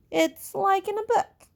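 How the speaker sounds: high, loud, gleeful exclamation; excited. Acted. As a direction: sell the adventure with delight. Ralph gesturing widely, enthusing.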